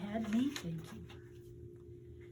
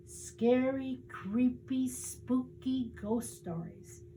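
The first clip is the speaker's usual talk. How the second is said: spooky storyteller; 4 semitones higher, slower than usual. Acted. Reggie relishing scary stories.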